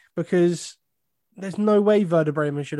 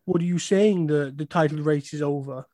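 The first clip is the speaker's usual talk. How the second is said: put-on German accent. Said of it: "worst German accent going".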